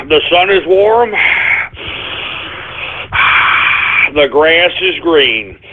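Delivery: slow, soothing self-calming chant; mock serene mantra. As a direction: recite it to calm yourself down. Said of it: "Take a deep breath".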